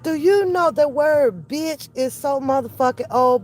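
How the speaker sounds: usual speaking voice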